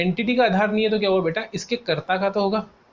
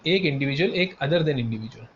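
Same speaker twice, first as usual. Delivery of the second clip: slow, deliberate dictation; slow teaching emphasis; 3 semitones lower, slower than usual. Shown as a demonstration. Teacher stressing the split for students, slowly. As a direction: spell out other than individual slowly. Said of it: "क्या बोला मैंने?".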